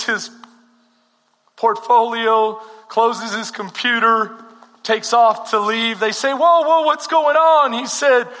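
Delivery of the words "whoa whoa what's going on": loud, higher alarmed whoa; startled crowd. Acted. Crowd calling after the departing auctioneer in alarm. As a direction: call out to stop him leaving.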